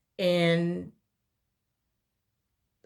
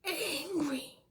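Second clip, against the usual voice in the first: voice breaking; 11 semitones higher, 6 dB quieter, much slower than usual. Real, not acted. Voice breaks recalling anger.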